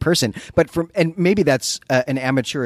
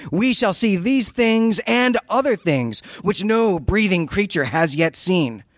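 mad scientist monologue; 5 semitones higher than usual. Acted. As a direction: declaim it like a raving genius. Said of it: "solid reading of a Lovecraft mad scientist monologue".

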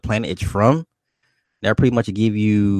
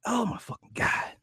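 exasperated whisper; 13 semitones higher, 11 dB quieter than usual. Retold or imitated. Exasperated husband reacting under breath.

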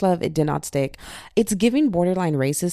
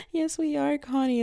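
tag; 9 semitones higher than usual. Acted. Answers her pet in acted dialogue.

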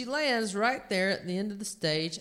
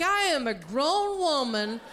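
high-pitched dignified objection; indignant protest; 6 semitones higher than usual. Acted. Comedian objecting to the heckler, indignant. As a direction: protest with mounting mock indignation.

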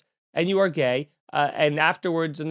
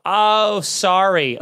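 apologetic oh sorry; 3 semitones higher, 4 dB louder, much slower than usual. Retold or imitated. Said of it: "but I always go".

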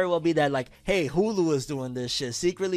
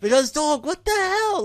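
incredulous outburst; 12 semitones higher, 6 dB louder than usual. Real, not acted. Disbelief at movie delay.

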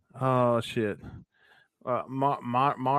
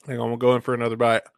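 fast, mouth full of banana; chewing while talking; 3 dB louder, faster than usual. Real, not acted. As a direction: rush it out mid-bite. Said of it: "that was aggressive".

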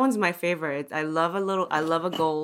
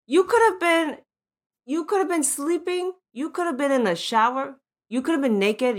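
emphatic high list; 7 semitones higher than usual. Real, not acted.

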